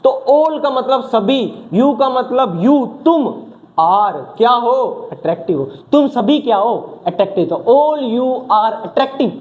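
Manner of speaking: slow, deliberate mnemonic chant; slow drill. Shown as a demonstration. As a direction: drag each word out so it sticks. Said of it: "slow mnemonic drill".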